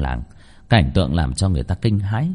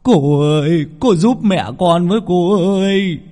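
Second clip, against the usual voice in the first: high, loud begging wail; kneeling man begs Miss Nam, wailing; wailing plea; 10 semitones higher, 5 dB louder, slower than usual. A narrator's reading. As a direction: beg on your knees, crying. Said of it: "quỳ xuống ôm chân của bà mà khóc lóc".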